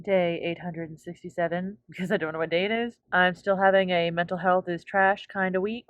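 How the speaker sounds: lisp from whitening strips. Real, not acted. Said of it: "sorry about the lisp, I have my white strips in".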